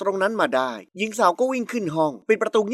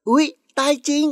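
higher, put-on gasp of dismay; feigned alarm; 6 semitones higher than usual. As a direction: act suddenly shocked. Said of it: "มลิสาทำหน้าตกใจ". (แกล้งทำเป็นตกใจ)

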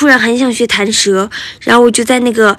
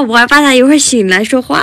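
normal talking voice

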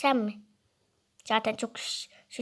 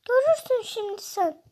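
mock threat; 9 semitones higher than usual. Rival character threat.

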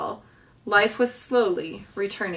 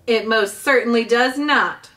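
hollered; 3 semitones higher, 6 dB louder than usual. Acted. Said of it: "hollered Missus Beaver".

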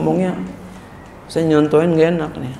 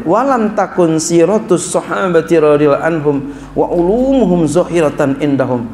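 emphatic quote; 2 semitones higher than usual. Shown as a demonstration. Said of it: "Nih, kata beliau".

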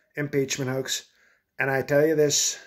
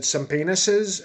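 higher, slowed, excited mock question; 4 semitones higher, slower than usual. Mike Pence mishearing subpoena, excited. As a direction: imitate someone excitedly garbling the word. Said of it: "he got excited".

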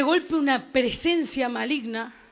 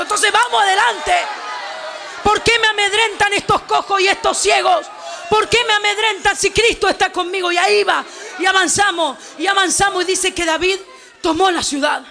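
impassioned Pentecostal preacher; fiery, sustained revival shouting; full-force preaching; 3 semitones higher than usual. Real, not acted.

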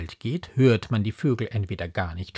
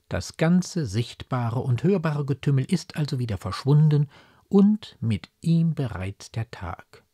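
ordinary delivery

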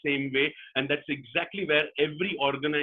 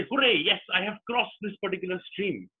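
higher-pitched, mildly triumphant fox; storybook cheer; 5 semitones higher than usual. Acted. Fox celebrates crossing the stream, mildly triumphant. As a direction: give a small acted hooray.

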